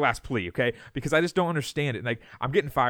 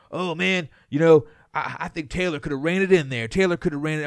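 lightly mocking fan voice, a touch higher; hammed-up armchair expert, a bit louder at the start; mocking clueless fans; 3 semitones higher, 4 dB louder than usual. Host to cohost, mimicking Twitter fans in a mild mock voice. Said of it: "everyone saying".

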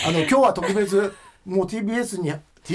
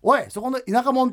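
imitated senior; 5 semitones higher than usual. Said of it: "っていうふうに言ってきたのが".

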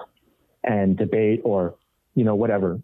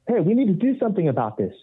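indignant demand; 9 semitones higher, faster than usual. Retold or imitated. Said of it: "he goes".

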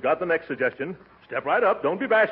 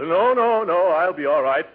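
hiccuping; 3 semitones higher, 6 dB louder than usual. Acted. Hiccuping uncle protests loudly.

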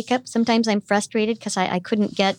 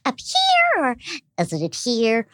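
voice placement demo. Shown as a demonstration. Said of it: "I'll be like".

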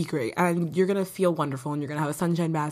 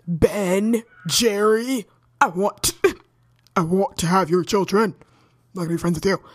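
mock lovestruck gushing; 5 dB louder than usual. Gushing crush fantasy rant.

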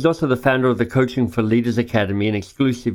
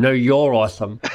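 laughing through the words. Real, not acted. Host repeats the compliment to his guest, laughing. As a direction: say it again, giggling.

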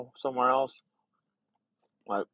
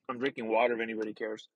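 whispering; 4 dB quieter, faster than usual. Real, not acted. Sipping water while talking.

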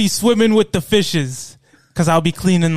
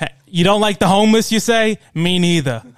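louder tough-guy pitch; mobster voice; 4 dB louder than usual. Pretend. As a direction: schmooze like a mob candidate.

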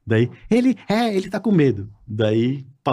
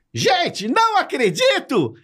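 much higher, slow fake astonishment; surpresa fingida; much slower than usual. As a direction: pretend to be amazed at bumping into him. (surpresa exagerada, bem aguda e lenta)

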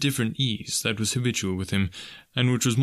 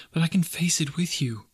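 whispering; 8 semitones higher than usual. Acted. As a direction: breathe it to him, barely voiced. Wife's tender vow to husband.

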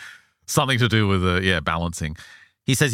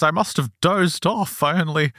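higher, lightly voiced old lady; airy little old lady, pitched up; elderly woman; 10 semitones higher than usual. Retelling Anne's account, lightly voiced old woman. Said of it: "She says".

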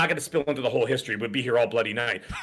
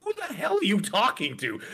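imitating wife; 10 semitones higher, slower than usual. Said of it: "she'd be like".

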